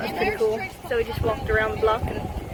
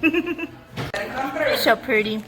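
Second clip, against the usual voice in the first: cooing; much slower than usual. Real, not acted. Cooing at a child.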